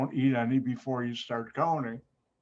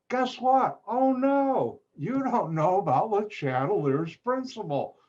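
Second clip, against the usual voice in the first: mock alarm; 5 semitones higher than usual. Teacher feigns alarm at class.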